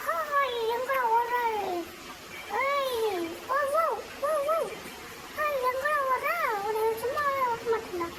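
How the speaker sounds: high-pitched calls after a runaway; mock chase shouting. Pursuer to runaway, "where are you running", mock threatening shout.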